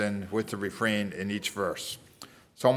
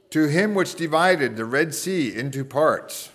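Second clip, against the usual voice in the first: measured responsive psalm reading; scripture reading. Acted. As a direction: read each verse out, leaving room for response.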